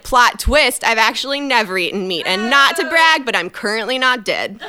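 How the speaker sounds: loud smug retort; sassy comeback. Retold or imitated. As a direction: deliver it like a mic drop.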